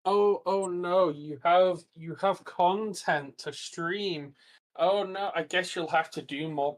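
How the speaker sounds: slow, exaggerated oh no; mock dismay. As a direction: play up the fake worry. Mock dismay about extra streams.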